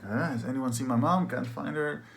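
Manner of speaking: high, lightly acted asking around; searching for mom. Acts himself searching for his mom.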